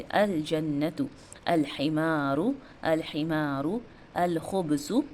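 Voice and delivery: slow model reading, every "अल" fully sounded; clear lam. Shown as a demonstration. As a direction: stretch the long vowels, as in "हिमारू", after a clear "अल". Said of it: "लाम का sound कितना clear आ रहा है".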